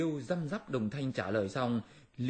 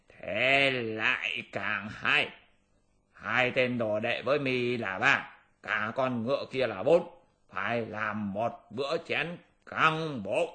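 greedy gloating demon; slower than usual. Acted. Demon relishes eating them all.

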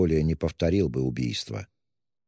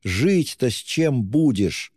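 higher, slowed, imploring cry; desperate higher exclamation; anguished exclaiming; 6 semitones higher, slower than usual. A narrator's reading. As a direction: plead with him in alarm. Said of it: "восклицала Соня".

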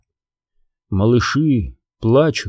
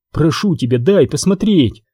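strained; 3 semitones higher than usual. Acted. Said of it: "выдавливает из себя Мэлори".

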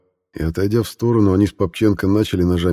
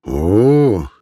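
delighted cheer; 4 dB louder than usual. A narrator's reading. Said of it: "дружно обрадовались все".

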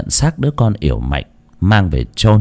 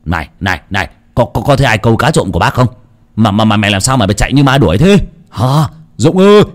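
shouting; faster than usual. Acted. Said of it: "Ông quát".

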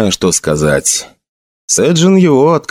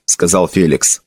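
ordinary delivery

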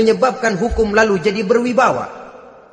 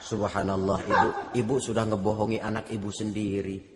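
gentle rebuke; 10 semitones lower, 10 dB quieter than usual. Retold or imitated. Umar gently rebukes mother.

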